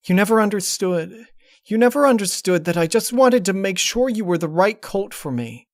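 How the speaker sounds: high and loud, hurt and pleading; pained cry. Acted. Twilight cries out at the disguised ex. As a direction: hurl the grievance through tears.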